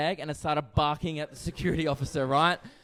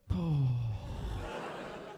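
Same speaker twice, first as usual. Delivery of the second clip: long sigh; 4 semitones lower, 5 dB quieter than usual. Acted. Acted sigh at customs question.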